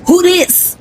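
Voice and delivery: mock surprised dad. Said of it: "my dad was like".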